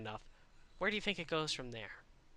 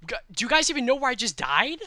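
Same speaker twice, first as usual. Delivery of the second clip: excited question; 8 semitones higher, 10 dB louder, faster than usual. Real, not acted.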